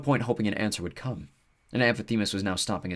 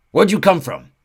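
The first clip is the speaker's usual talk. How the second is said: high loud odd centaur; curious, sniffing him out; creature voice; 9 semitones higher, 12 dB louder, slower than usual. Acted.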